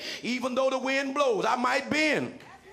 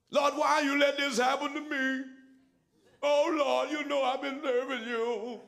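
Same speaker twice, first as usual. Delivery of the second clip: lightly voiced complaint to God; mock whining prayer; 2 semitones higher than usual. Preacher mimics believers blaming God, mildly whining. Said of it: "We get crazy in front of God".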